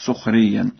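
سخريا said sukhriyyan; damma on sin. Shown as a demonstration. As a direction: say سخريا starting with su-, not si-. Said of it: "وبضم السين في سخريا هكذا". (ضم السين في سخريا)

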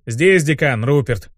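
mildly barked reply; a touch of a commander's bark. Acted. Dean announcing himself to the imp, barking lightly. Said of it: "гаркнул я".

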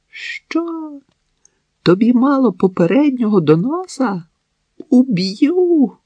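high, sharp cry of rage; furious outburst. Acted. Wife shrieks at her drunk husband, enraged. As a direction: scream a death threat at him.

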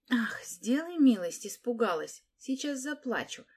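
teasing girl, mock fear, opening in a whisper; whispered mockery, then mock tears. A narrator's reading. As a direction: sneer at the little ones with fake fright. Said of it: "насмешничала Липа".

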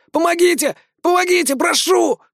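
high desperate shriek for help; shrieking plea. A narrator's reading. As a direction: scream for help in panic. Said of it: "Крыса истошно заверещал".

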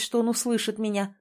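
plain reading voice

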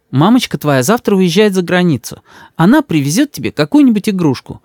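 высокий, ласковый голос матери; мама заступается за сына. A narrator's reading. Мама уговаривает. (голос мамы, выше)

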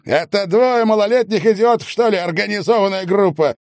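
high, scornful question; scornful snort. A narrator's reading. Medников scoffing at the detective, scornful. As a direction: scoff at the charge. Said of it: "фыркнул Медников".

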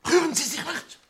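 high, loud shouted order; commanding shout. Acted. Inspector orders the room to stay still, commanding shout. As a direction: freeze them with a shout.

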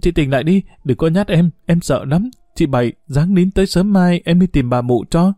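stammering and high with fear; a frightened girl pleading with the woman in labour; frightened stammering plea. Acted. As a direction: beg her to wake up, terrified. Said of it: "lắp bắp kêu không thành câu".

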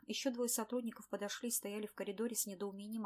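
ordinary delivery, nothing marked

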